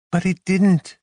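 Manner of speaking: a woman insisting the dream never happened; firm female rebuttal. A narrator's reading. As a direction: cut him off firmly. Carmen voiced, higher.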